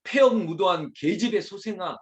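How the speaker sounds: acted rough reproach; harsh rebuke. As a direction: throw the curse at your son. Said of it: "말이 더 거칠어지기 시작하는".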